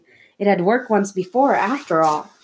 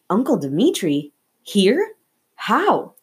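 astonished; 2 semitones higher, slower than usual. Acted. Boy stunned to see uncle.

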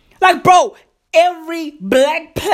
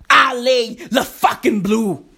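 mock crying; 3 semitones lower than usual. Mock tearful over the slogan.

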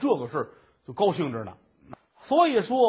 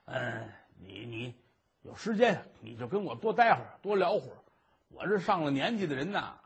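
哄人的老头儿. Acted. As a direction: sweet-talk the young maid like a doting old man. (轻声哄劝的老爷)

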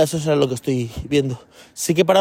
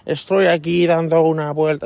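Spanish with a light American accent, a bit slow; mild American-accented Spanish; slower than usual. Shown as a demonstration. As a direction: speak Spanish like an American would, lightly done. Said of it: "Hablan así, como".

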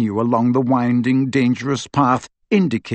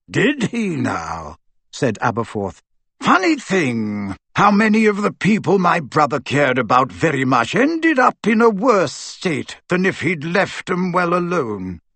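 put-on sardonic old wizard; 5 semitones higher than usual. Aberforth on those his brother cared for, sardonic.

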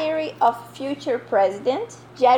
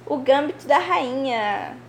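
ordinary delivery

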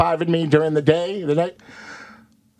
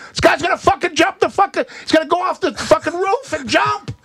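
high frantic warning, much higher; panicked mock urgency; high excited rant; frantic plea.

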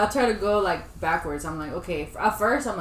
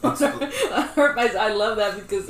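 laughing; 4 semitones higher, 5 dB louder than usual. Real, not acted. Laughs at the phrase.

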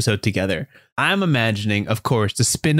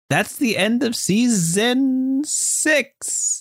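high, slow drawn-out announcement; grand season-finale call; announcer outro; 11 semitones higher, much slower than usual. Real, not acted. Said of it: "outro announcement".

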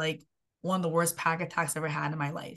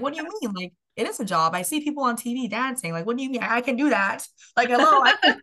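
higher and louder, protesting with rising insistence; indignant young dreamer; 6 semitones higher, 6 dB louder, faster than usual. Retold or imitated. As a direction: push back hard on dad, getting louder. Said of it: "And I was like".

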